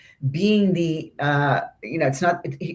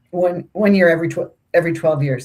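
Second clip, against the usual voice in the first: talking through hiccups; hiccuping between words; 4 dB louder, faster than usual. Real, not acted. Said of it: "I got the hiccups now".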